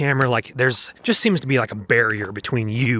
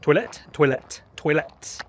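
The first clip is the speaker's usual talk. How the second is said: toilet said the French way, twa-LET, with a French accent; 2 semitones higher, slower than usual. Shown as a demonstration. Teaching viewers survival French, in a French accent. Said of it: "You gotta get that accent in there".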